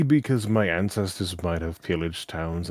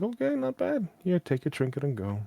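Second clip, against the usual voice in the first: grudging praise; 10 semitones higher than usual. Retold or imitated. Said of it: "and I'm like".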